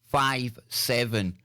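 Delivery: slow, measured on-air caller introduction; radio host announcement. Real, not acted. Host brings next caller on air.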